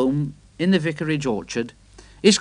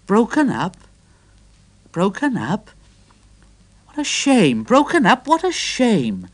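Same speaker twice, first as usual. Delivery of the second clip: higher, louder indignant engine; 7 semitones higher, 3 dB louder than usual. A narrator's reading. Edward outraged that Trevor will be scrapped, higher and indignant. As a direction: sputter it out, offended on a friend's behalf. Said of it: "was quite indignant".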